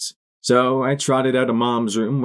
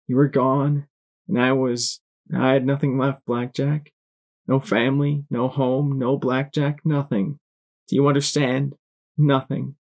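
higher, pleading voice; pleading mare voice; 4 semitones higher than usual. Acted. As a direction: plead with rising pitch.

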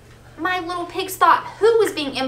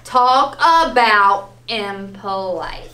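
wolf's remark; 4 semitones lower, 3 dB louder, much slower than usual. Acted. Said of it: "my wolf even says".

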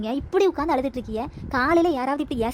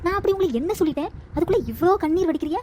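higher, sharper protesting retort; indignant retort; 4 semitones higher than usual. Acted. Daughter-in-law protesting to mother-in-law, indignant and higher. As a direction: throw the accusation back at her.

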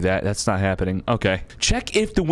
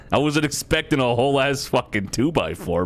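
laughing. Real, not acted. Laughing at giant board.

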